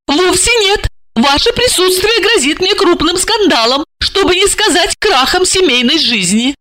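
put-on high, prim young woman; high and proper; Lipochka explaining. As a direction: lecture the stranger primly. Lipochka voiced by narrator.

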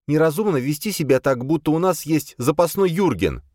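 put-on high, impatient young woman's voice; an exasperated girl pushing to leave; Boya, impatient. Boya impatient with the others, high and pushy.

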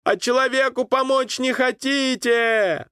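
high pleading cry toward the river; desperate call. A narrator's reading. Boy calling to the passing captains, high and pleading. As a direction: call out, hurt that nobody stops.

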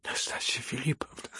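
hushed, trembling whisper of her name; quavering whispered plea. A narrator's reading. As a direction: breathe her name, shaken. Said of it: "дрожащим голосом проговорил".

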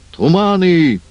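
high loud roar. Acted. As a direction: bark the command out. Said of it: "Водяной рявкает".

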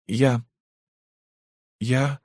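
хм, halting stammer, high and broken. Acted. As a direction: stutter it out, barely able to start. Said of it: "заикаясь". (заикаясь, с запинкой)

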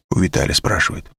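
usual speaking voice

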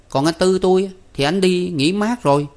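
put-on high boyish statement; boy Năm, matter-of-fact. A narrator's reading. Năm explains where his brother went, high and casual.

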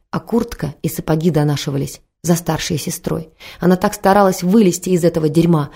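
plain reading voice

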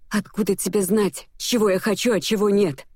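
indignant exclamation; exclaiming. A narrator's reading. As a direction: fling the question back at him. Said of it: "воскликнула я".

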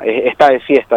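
usual speaking voice

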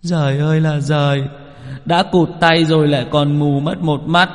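high, wailing grief for a friend; on the verge of tears; Chín biết lamenting his friend's blinded eye; whimpering lament. A narrator's reading. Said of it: "Chín biết nghe vậy thì mếu máo".

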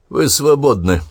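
loud, clear declaration to the prisoners; loud announcement. A narrator's reading. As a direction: announce it loudly. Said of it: "громко сказал он". (громко, торжественно)

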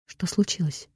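quiet hushed question. Acted. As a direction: ask it under your breath.

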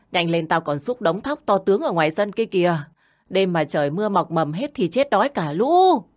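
a hint of a harsh young wife berating her mother-in-law; lightly voiced shrew, nagging and scornful; scolding daughter-in-law.

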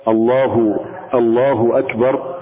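الله أكبر said slowly with a waw slipped in after الله; added waw. Shown as a demonstration. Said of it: "فلو قال". (الله أكبر ببطء مع واو زائدة بعد لفظ الجلالة)

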